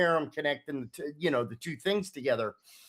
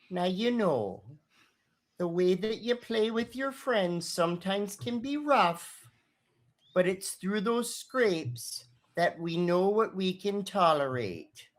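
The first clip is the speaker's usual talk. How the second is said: motherly lecture; 2 semitones higher than usual. Acted. Dolores gently lecturing the boys.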